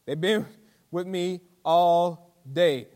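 lightly voiced Jesus, drawn out slowly; a hint of Jesus speaking to followers, slow; slow solemn Jesus. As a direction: let the words linger, slow and gentle. Preacher voices Jesus' words.

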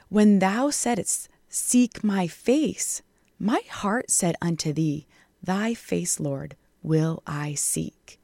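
whispered devotional psalm; hushed scripture reading. Acted. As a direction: breathe the last words like a private vow.

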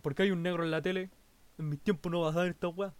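lightly voiced grumpy old man; a hint of a cranky old man. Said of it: "dijo así como con voz de viejo".

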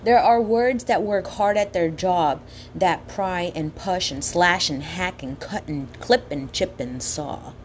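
slow, savoring each word; poem reading. Acted. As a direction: relish the sounds of every word. Reads quoted poem slowly.

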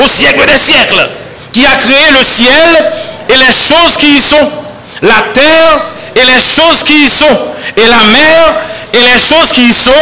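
lifted, urgent sermon voice; fervent preaching. Acted. Pastor preaching to sisters and brothers, fervent and lifted. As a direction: preach it with rising fervour. Preaching at full force in Creole.

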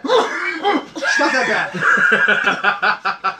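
drawn out through laughter; very slow, laughing. Real, not acted. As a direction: stretch each word, laughing. Stretched out, laughing.

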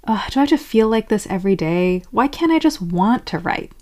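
mildly exasperated whine; frustrated. Acted. Complaining to yourself about writing, mildly frustrated. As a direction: groan it out with acted frustration. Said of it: "Getting frustrated with it would be".

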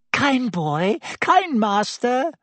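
high, wheedling flattery; fawning Pettigrew. Acted. Pettigrew crawling to Ron, high wheedling flattery. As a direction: fawn over him, high and slow.

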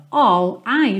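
"All I" run together as one; linked words. Shown as a demonstration. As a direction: glide "All" straight into "I".

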